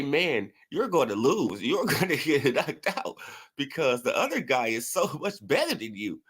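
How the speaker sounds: retelling the taunt while cracking up; quoting the haters between laughs; laughing through quote. Retold or imitated. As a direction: giggle through the quoted insult. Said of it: "they say".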